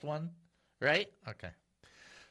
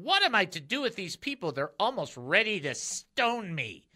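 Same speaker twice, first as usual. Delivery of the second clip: half-earnest cry for help from a leader; acted crying out; 3 semitones higher than usual. Leader of Israel to the Lord, acted crying out. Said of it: "cried out to the Lord".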